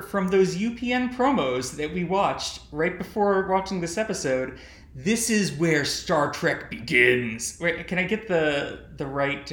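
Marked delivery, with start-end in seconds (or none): 4.9-7.6 slow promo announcer read; dramatic TV promo voice; UPN announcer voice. Retold or imitated. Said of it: "U P N announcer voice".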